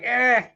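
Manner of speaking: high, dismissive "eh" noise; short, high-pitched "eh"; imitated "eh". Host recalling when covid hit, high "eh". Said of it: "I was just like".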